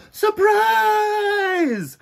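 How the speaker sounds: high, loud shout of surprise; yelling surprise. A narrator's reading. Friends jumping out at Sidney, a high loud yell. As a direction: burst out with it like jumping from hiding. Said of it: "they'd all yell".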